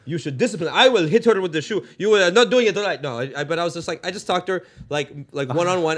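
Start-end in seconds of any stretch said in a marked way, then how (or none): 0.1-3.0 put-on scolding man with an Arab accent; indignant Arab-accented lecture, rising in force. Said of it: "as an Arab and be like".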